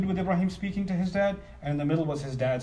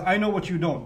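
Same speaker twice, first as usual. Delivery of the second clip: louder, know-it-all claim to his father; presumptuous son; 3 semitones higher, 5 dB louder than usual. Retold or imitated. Son lecturing his father with superiority. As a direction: say it like you know better than him. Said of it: "What son is gonna say to his father".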